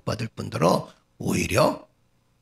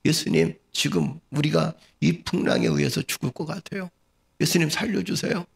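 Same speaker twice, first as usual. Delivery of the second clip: higher, pleading disciple; acted plea for help; 5 semitones higher than usual. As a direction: beg the master to save you. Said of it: "예수님의 제자들이 이렇게 얘기했다고 생각해 보세요". (살려 달라고 애원하는 연기)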